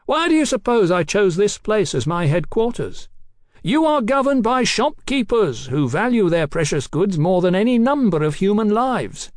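high, ringing, triumphant boast; boastful declaiming. Acted. Captain boasts of his safe headquarters, declaiming. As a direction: proclaim your stronghold unbeatable.

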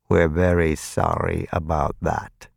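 slow, practiced sympathy; mock sympathy. A narrator's reading. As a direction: feign sympathy with a hidden hunger. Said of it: "something like sympathy in the vampire's voice".

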